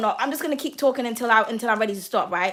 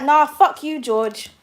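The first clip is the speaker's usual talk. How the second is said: louder, blunt dismissal; blunt telling off; 5 dB louder, slower than usual. Real, not acted. Tarot reader snapping at cheating George, blunt and louder. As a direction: cut him off hard.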